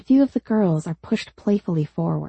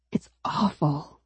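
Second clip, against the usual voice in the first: confessing quietly; 2 semitones lower, 5 dB quieter than usual. A narrator's reading. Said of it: "she confesses".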